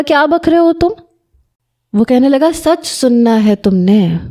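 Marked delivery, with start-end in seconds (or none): 0.0-0.9 indignant retort. Acted. Shocked wife retorts to husband.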